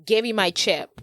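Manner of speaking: imitated Asian accent of the limo guy. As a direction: lightly mimic an Asian accent. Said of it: "That's exactly how he says it".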